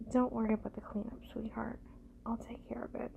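ordinary talk

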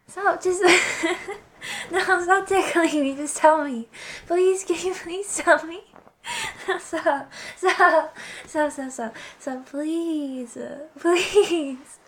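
squealing, laughing while tickled; giggling through tickles; being tickled. Acted. Stop tickling me.

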